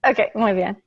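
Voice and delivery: put-on playful Spanish accent. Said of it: "I'll work on my Spanish accent".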